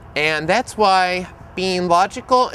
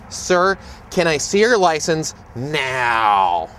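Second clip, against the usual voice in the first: stern voice; much slower than usual. Retold or imitated. Officer repeats his demand to the driver, stern and slow. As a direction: lay down the law, slowly. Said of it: "in the most stern voice possible".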